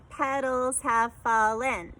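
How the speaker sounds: petals have fallen, slow and syllable by syllable; counting syllables slowly. Shown as a demonstration. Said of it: "That one was also five".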